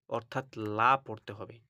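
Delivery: লা said thin and light. Shown as a demonstration. A Quran teacher to students, showing a light লা. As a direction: keep the ল thin. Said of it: "লা মানে পাতলা করে পড়তে হবে".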